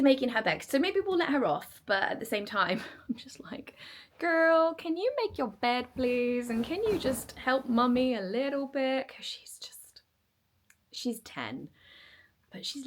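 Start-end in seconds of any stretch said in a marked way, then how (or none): 4.2-9.1 pleading mum. Retold or imitated. Mum voicing her plea to daughter.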